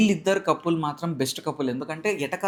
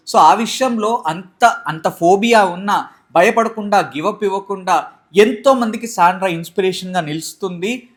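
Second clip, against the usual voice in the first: loud, emphatic retelling of a defence; retold forceful speech; 5 dB louder than usual. Husband defending Sandra as an inspiration, forceful. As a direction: punch it out firmly, drawing out key phrases. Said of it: "చాలా గట్టిగా".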